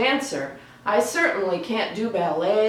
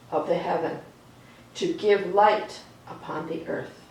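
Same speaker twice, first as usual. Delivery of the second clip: reading Genesis aloud. A narrator's reading. Reading the creation story to children, calm storytelling read. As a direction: let each line settle before the next.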